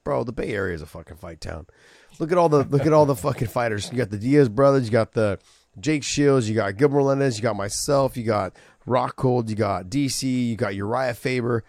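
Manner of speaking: heated tirade, tick off each fighter's name; mock angry rant. Telling Dana off about fight towns, heated. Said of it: "I was so pissed".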